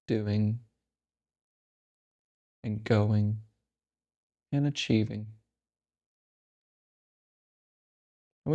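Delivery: calm, unhurried meditation guide with long pauses; guided meditation. Real, not acted. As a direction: lead them gently into stillness, leaving space between phrases. Leads a breathing meditation.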